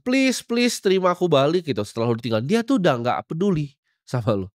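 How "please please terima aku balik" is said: higher mock plea to an ex; mock begging. Dumped guy begging his ex to take him back, mock plea. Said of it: "Lu nggak perlu ngemis gitu kan".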